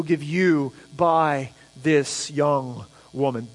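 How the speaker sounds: brisk then solemn reading of the blessing; scripture reading. Acted. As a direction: read the elders' blessing aloud to the congregation. Reads the town's blessing.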